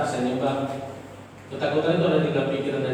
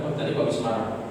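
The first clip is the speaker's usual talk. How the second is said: softer, unvoiced worried thought; voiced whisper of inner doubt, softer; 3 semitones lower, 5 dB quieter than usual. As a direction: whisper the nagging fear.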